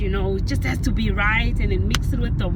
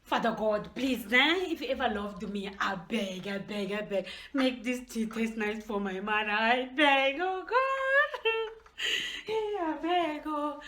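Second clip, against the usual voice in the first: much softer, pleading hushed prayer; whispered prayer; 11 dB quieter than usual. Acted. Daughter praying the tea tastes nice, hushed pleading. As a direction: beg God under your breath.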